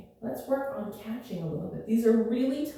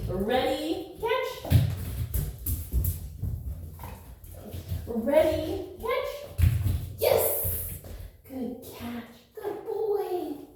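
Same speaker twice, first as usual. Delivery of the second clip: talking to a dog; 5 semitones higher, much slower than usual. Real, not acted. Dog catch game.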